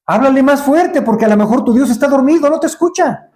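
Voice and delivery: mocking and impatient, rising high and fast; sarcastic jab at false gods; ironic taunt. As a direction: taunt them like a fed-up prophet. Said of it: "Y Elías ya desesperado, irónico".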